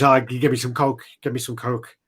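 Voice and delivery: lightly attempted Scottish accent; quick imitation with a hint of Scottish; best Scottish. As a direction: have a half-hearted go at Scottish. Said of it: "that was my best Scottish".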